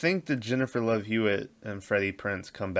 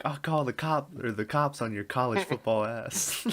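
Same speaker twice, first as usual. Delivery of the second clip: mocking threat; 5 semitones higher than usual. Quoting a character's threat.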